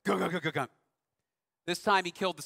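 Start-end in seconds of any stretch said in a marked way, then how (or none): 0.1-0.7 mock engine thud. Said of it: "I hear it".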